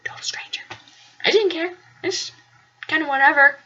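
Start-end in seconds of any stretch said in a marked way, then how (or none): 0.1-0.6 unvoiced mocking echo; whispered echo. Alita mockingly echoing her roommate in a whisper. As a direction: breathe it back under your breath.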